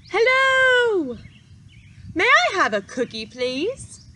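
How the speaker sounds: bright, polite small duckling, eager to please; sweet duckling voice. Acted. Duckling character asks politely.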